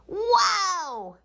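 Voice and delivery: put-on high, thrilled kids' cheer; excited yell. A narrator's reading. Kids cheering their teacher is gone, excited. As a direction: squeal with delight like a kid. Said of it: "yelled the kids".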